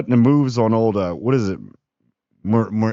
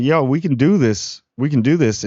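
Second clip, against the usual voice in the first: hyped-up pitch; 5 semitones higher, 4 dB louder than usual. Retold or imitated. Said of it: "He's like".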